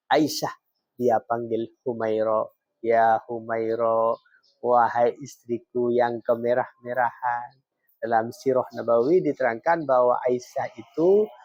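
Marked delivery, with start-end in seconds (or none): 2.8-7.6 gently quoted term of endearment, unhurried; lemah lembut. Retold or imitated. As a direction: address your wife tenderly, understated. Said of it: "dan intonasinya lemah lembut". (panggilan lembut untuk istri)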